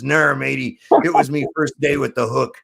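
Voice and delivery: lightly voiced joke pirate; a hint of pirate talk. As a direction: growl the "Arr" like an old sea dog. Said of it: "are you a pirate?".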